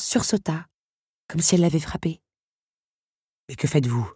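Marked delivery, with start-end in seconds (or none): 3.5-4.1 low beast, a touch of worry; worried. A narrator's reading. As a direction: ask uneasily, the fury gone. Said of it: "d'une voix non plus furieuse, mais inquiète". (voix grave légèrement inquiète)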